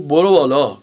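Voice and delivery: low, curt tough-guy command; thuggish Reza Shah. Retold or imitated. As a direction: play a street tough giving a short order. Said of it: "با همون حالت لاتی خودش گفت".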